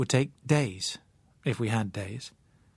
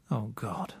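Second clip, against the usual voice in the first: breathed whisper, much softer; 2 semitones lower, 7 dB quieter than usual. A narrator's reading. Narrator overwhelmed by the girl's plea, whispered. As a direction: let it out under your breath. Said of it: "I said softly".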